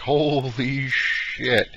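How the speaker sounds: slow, stunned holy shit; a slow, awed gasp of surprise. Retold or imitated. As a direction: drag it out in disbelief. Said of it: "I was like".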